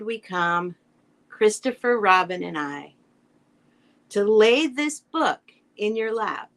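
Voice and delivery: slow read-aloud with long pauses between lines; tender dedication reading. Acted. Reader close to crying over the dedication, slow read-aloud. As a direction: let each short phrase settle before the next.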